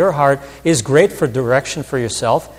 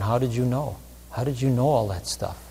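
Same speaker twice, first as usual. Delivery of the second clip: softly imitated astonishment, much quieter; mildly acted hushed amazement; amazed, tearful question; 7 dB quieter than usual. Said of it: "they're crying, and they're just going".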